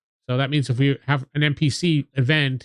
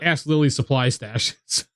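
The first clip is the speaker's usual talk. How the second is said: mock blunt. Shown as a demonstration. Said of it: "That's how you talk to her".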